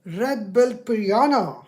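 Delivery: loud, deliberate search command. Real, not acted. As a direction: call it out clearly to a machine. Dictating to a voice assistant.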